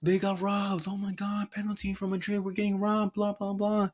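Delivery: high whiny mock of online fans; mocking Madrid fans. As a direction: whine like a robbed crybaby. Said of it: "people online on Twitter saying".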